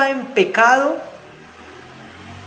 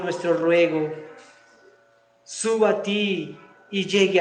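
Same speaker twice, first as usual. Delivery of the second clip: fervent prayer. Real, not acted. Pastor praying aloud for the standing congregation, fervent pleading. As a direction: pray aloud for the whole church, pleading.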